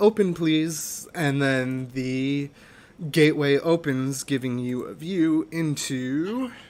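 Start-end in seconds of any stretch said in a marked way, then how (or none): 0.0-1.1 bright, chirpy, pitched-up voice. A woman with her hand on a tree archway asks it to open: chirpy. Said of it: "in a chirpy voice says".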